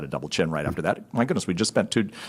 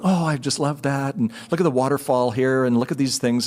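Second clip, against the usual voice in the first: lightly mimicked sightseeing delight, pitched up; imitated gushing; 4 semitones higher than usual. Wife admiring waterfall on the drive, gushing. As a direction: gush lightly over the view.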